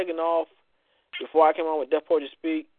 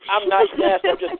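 protesting; 13 semitones higher, 3 dB louder than usual. Real, not acted. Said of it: "protesting the nickname".

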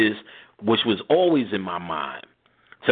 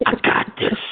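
a playful take on a dare; mock surprise; 4 semitones higher than usual. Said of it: "I was like".

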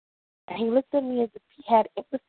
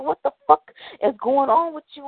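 mildly heated retold outburst; angry retort; 2 semitones higher than usual. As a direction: demand it in acted disbelief and anger. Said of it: "I go angry, saying".

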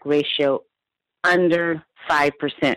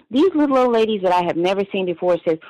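ordinary delivery

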